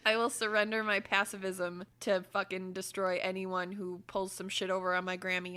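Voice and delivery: ordinary talk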